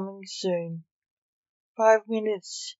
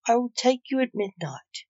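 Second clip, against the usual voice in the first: nervously; 4 semitones higher than usual. Acted. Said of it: "The Reaper said nervously".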